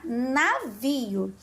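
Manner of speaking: navio split after the first syllable na. Shown as a demonstration. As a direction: sound out navio slowly, na set apart. Teacher builds word from syllable na.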